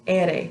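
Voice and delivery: R said as Spanish ere; name the letter R the Spanish way. Shown as a demonstration. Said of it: "This is the letter R".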